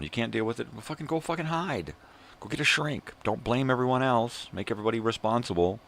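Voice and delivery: angry rant. Real, not acted. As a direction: lash out at the whiners, voice way up. Ranting at critics.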